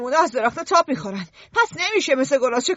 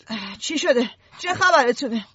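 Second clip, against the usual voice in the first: drowsy, half-awake grumble; sleepy; 2 semitones lower than usual. Acted. Ralph woken by the twins, asking sleepily. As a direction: ask like you were just woken. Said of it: "خواب آلود پرسید".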